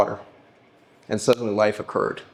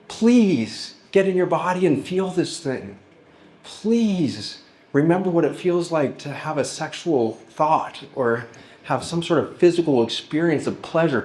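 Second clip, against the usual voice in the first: pleading soul; 6 semitones higher, slower than usual. Pretend. The soul pleading with the anxious woman, high and slow. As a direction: beg her gently to come back to her body.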